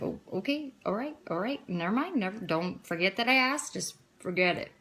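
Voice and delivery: soft, hesitant retold quote; retold backing off. Friend drops her question to the speaker, quietly backing off. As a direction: softly imitate a friend withdrawing her question.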